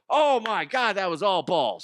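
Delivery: very high, excited holler; sound-bite exclamation. Shown as a demonstration. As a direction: cry it out like an astonished game call.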